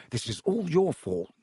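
a hint of heated blame; angry. George blaming Wood, mildly angry. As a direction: accuse him sharply. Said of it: "George said angrily to Wood".

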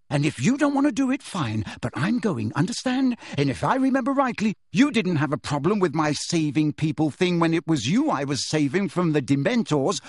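high, impassioned argument; heated, insistent outburst; angry tirade. Acted. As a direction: rant in exasperation, driving the point home. Harry's angry tirade at friends.

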